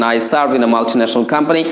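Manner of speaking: slow, careful dictation pace; slow model answer. Shown as a demonstration. Teacher dictates the English answer slowly to viewers. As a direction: read the model line slowly for learners. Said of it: "আপনি এইভাবে answer করবেন".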